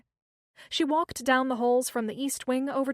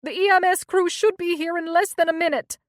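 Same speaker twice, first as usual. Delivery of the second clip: panting out of breath; breathless after running; 7 semitones higher, 8 dB louder than usual. A narrator's reading. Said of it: "out of breath".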